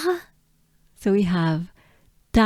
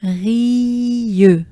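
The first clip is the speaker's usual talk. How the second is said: Rieux projected louder with French R; 4 semitones higher, 6 dB louder than usual. Shown as a demonstration. Teacher projects Rieux for the class. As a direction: call out Rieux clearly. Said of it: "models Rieux".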